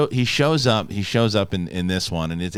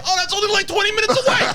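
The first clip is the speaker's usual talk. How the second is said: mock New Yorker. Mocking New Yorker about distance.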